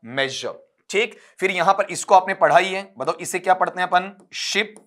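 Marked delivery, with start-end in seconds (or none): 0.0-0.6 मेजर as "mezh-uh", lower and falling; assembled word pronunciation. Shown as a demonstration. Teacher putting the sounds together, careful "mezh-uh". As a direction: drop the final r of मेजर. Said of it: "ये क्या बना आपका".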